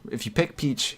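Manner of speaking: ordinary delivery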